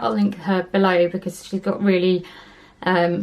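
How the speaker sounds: slightly out of breath, talking between breaths; breathless after climbing upstairs. Real, not acted. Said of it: "I'm a bit out of breath".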